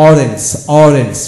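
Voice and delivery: "orange" drawn out very slowly, each sound clear; slow model pronunciation. Shown as a demonstration. Teacher slowly modelling "orange" for parents' children, very slow. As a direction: spell out "orange" slowly for the learner. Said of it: "O double F".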